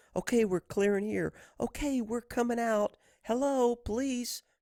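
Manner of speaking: high, hushed, slow, tiptoeing stage whisper. Mocking a guy who half-whispers while clearing rooms, mocking a half-whisper. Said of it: "this guy's whispering".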